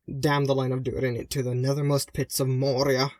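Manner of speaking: a bitter curse hissed into the palms. Acted. Sister cursing the line of Durin, hissed bitter. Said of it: "she hissed into her palms".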